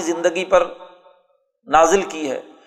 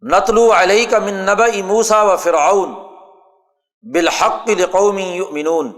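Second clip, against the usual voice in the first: slow, measured Arabic verse; Quran recitation; slower than usual. Acted. Lecturer reciting the verse on Musa and Firaun, slow Quran recitation. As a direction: recite it slowly with lengthened vowels.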